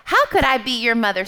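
lightly voiced cow. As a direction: answer as the astonished cow. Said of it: "said the cow".

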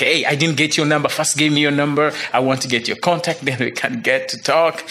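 mildly eager, quickened phone chatter; retold excitement. New friend phones to ask for his number, mildly excited. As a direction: imitate an excited caller, lightly. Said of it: "he was so excited".

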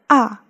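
"ah" in a falling fourth tone. Shown as a demonstration. Teacher showing someone is surprised, fourth-tone "ah". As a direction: drop "ah" sharply for surprise. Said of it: "is the fourth tone".

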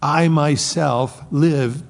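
"I myself" slow and pressed, weight on "I"; stress on I myself. Shown as a demonstration. Preacher to congregation, stressing "I myself" slowly. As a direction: lean hard on "I myself". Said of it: "it's emphatic there".

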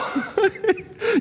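high burst of laughter; real laugh. Real, not acted. Preacher laughing at the boss's excuse, laughing. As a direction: laugh out in disbelief.

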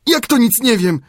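high, astonished question; high and amazed, stress on "Jak"; surprised Friday. A narrator's reading. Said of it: "zdziwił się". (Piętaszek zdziwiony, wysoko)

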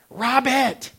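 shouted name across the field; loud high yell of a name; calling out. Retold or imitated. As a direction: call him from far up in the press box. Dad calls from press box.

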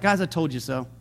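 low, soft, understated I-told-you-so. Acted. Paul to the ship's men, understated told-you-so. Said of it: "He's just like".

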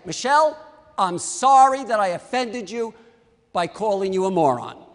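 firm, forthright apology without hedging; direct apology. Shown as a demonstration. Speaker modelling a proper apology to Michelle, direct and deliberate. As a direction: come right out with "I'm sorry". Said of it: "come right out and say it".

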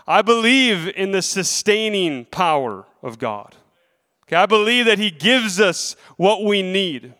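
rising, emphatic sermon delivery; preaching. Acted. Preacher encouraging his congregation, earnest preaching. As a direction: urge the congregation to hold on.

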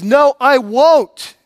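a hint of God, slow and firm; God refusing. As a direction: speak as God saying no, deliberately. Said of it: "But God says".

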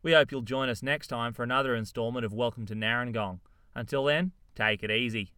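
brisk host outro; show sign-off. Acted. Host closing the episode for listeners, brisk. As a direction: wrap it up for listeners.

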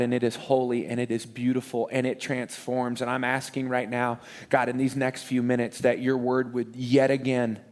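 hushed pastor's prayer before the sermon; earnest prayer. Acted. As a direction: pray quietly and earnestly over the room. Pastor leads opening prayer.

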